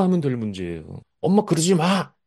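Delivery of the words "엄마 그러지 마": put-on high-pitched childish protest to mom; put-on petulant little-kid voice; whining baby. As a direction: imitate a kid arguing back at a parent. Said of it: "이런 게 얘기예요, 이게 얘기".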